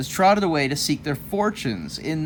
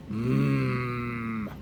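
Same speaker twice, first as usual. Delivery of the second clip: 1 hungry coyote thought; 2 semitones lower, much slower than usual. Acted. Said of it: "he thought".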